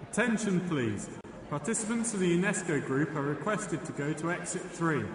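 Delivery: airport announcement over loudspeaker; over a PA system. Acted. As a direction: read it like an airport tannoy.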